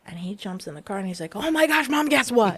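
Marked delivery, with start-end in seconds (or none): 1.4-2.6 high, bubbly, breathless news; a son gushing to mom about camp, excited; excited kid. Retold or imitated. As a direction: burst out with the news like an eager kid.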